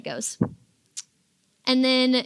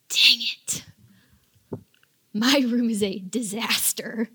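whispered dread, slower; slower than usual. Pretend. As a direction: hush it so mom can't hear. Caught by mom, messy room.

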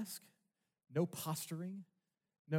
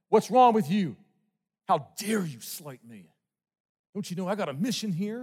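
loud, higher, offended shouting; indignant outburst; 4 semitones higher, 13 dB louder than usual. Retold or imitated. Paul imagined scolding the church that slighted him, indignant shout. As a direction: bark out wounded pride at the church. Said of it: "you also hear him saying".

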